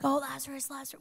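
hushed, dreamy sigh over the name; mock swooning. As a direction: say it like fans fawning over Lazarus. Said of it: "and we're like".

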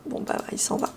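whispered aside under her breath; murmured repeat, voiceless. Real, not acted. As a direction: breathe Bon, bah, il s'en va as a voiceless murmur.

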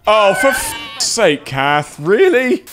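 slow, pained groan of complaint; exasperated. Real, not acted. Player killed by teammate Kath, exasperated.

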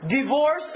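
DIVORCE said as die-VORCE; long eye vowel opening divorce; mispronounced divorce. Shown as a demonstration. Teacher contrasts two pronunciations, divorce said as die-VORCE. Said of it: "give you some other examples".

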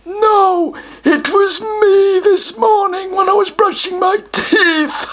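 a troll pleased with his trick answer; smug troll. Acted. Troll teases the child with a trick answer, smug.

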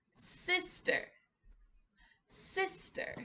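Sister whispered softly; whispered demo word. Shown as a demonstration. Teacher whispering Sister to toddlers, a hushed demo. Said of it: "And we go down".

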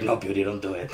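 laughing through a puppet line. Retold or imitated. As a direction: chuckle through it, in a low voice. Other arm puppet answers.

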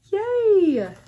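high, loud little yay; real delighted yay; happy cheer. Real, not acted. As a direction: cheer with glee. Cheering over thread.

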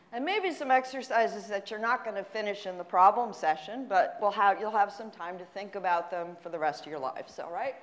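slightly out of breath, winded. Real, not acted. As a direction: talk while still catching your breath. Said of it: "so I kind of winded myself".

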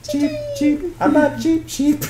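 high chirpy cheep cheep; cartoon bird voice. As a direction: peep like a little cartoon bird. Playing the bird toy.

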